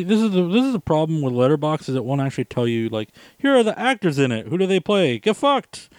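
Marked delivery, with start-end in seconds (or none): 3.4-5.9 mock snarky reply. Mocking Letterboxd's terse reply.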